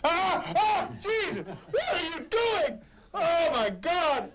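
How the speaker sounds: high startled yelps, then slow laughing. Real, not acted. Patient yelping as the doctor probes his nose. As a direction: yelp as the instrument goes in.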